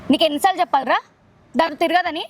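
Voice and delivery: acted angry threat, punching the key lines; serious jealous threat. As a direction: threaten him like a jealous lover. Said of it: "ఒక type of seriousness నాకు కావాలి".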